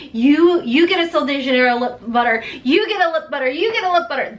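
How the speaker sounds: loud, excited giveaway shout, Oprah style. Pretend. Beauty vlogger shouting a mock Oprah giveaway to viewers. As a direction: hand out prizes like a talk show host. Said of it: "I'm gonna pull an Oprah".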